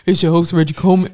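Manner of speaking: fast hammed-up host voice; deep firm voice. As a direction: play up the deep announcer. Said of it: "I try to switch my voice up on the intro".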